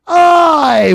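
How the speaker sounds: loud enthusiastic shout. Real, not acted. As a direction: call it out proudly. Shouted reply.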